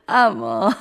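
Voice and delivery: long, loud, high peal of laughter; bursting out laughing. A narrator's reading. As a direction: crack up, then get a word out. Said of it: "یک دفعه از خنده ریسه رفت". (از خنده ریسه رفتن)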